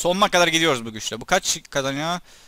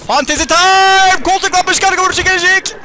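a showman announcing his big attack with mock glee; hammed-up battle cry; 9 dB louder than usual. Gamer announcing his special attack to viewers, high hammed-up cry.

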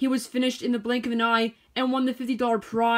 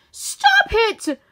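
loud, high, sharp demand; 12 semitones higher, 6 dB louder than usual. A narrator's reading. Sheep ordering the horse to stop, loud and high. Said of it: "Violet demanded".

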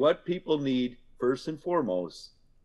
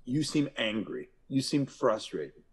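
calm naming. Shown as a demonstration. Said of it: "Then name the emotion".

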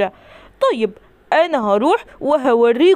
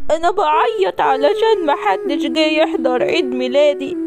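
fake crying; 3 semitones higher than usual. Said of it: "انت بتعيط في عيد ميلادك؟".

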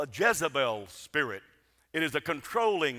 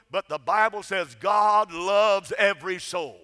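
full-force preaching; 4 dB louder than usual. Acted. Preacher to congregation, proclaiming God's love at full force. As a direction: lift the congregation with each line about God's love. Preacher listing whom God loves.

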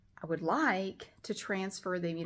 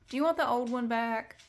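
lightly raised coaxing pet talk; 5 semitones higher than usual. Real, not acted. Offering the cat her old tape measure, in a light pet voice. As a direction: ask it sweetly like to a cat.

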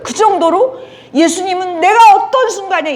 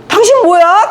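loud, higher, accusing bark; rude challenge; 5 semitones higher, 7 dB louder than usual. Retold or imitated. Drunk patient barking at the woman dentist, loud. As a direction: hurl it at her like a drunk.

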